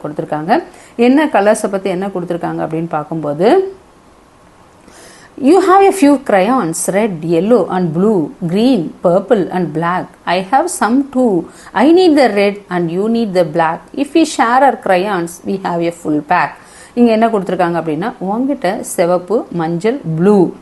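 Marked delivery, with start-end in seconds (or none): 5.4-16.5 put-on lilting, slow poem reading for children; poem recitation. Teacher reciting the crayons poem to children, slow recitation. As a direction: recite it line by line, measured.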